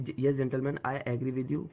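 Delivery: very slow, deliberate polite English; polite counter in debate. Shown as a demonstration. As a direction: ease into the counterpoint, very slowly. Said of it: "तो आप बोलना कि".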